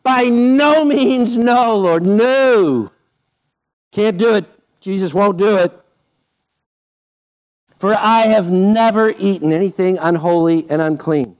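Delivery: mock stubborn Peter refusing the Lord. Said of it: "Mister Amazing".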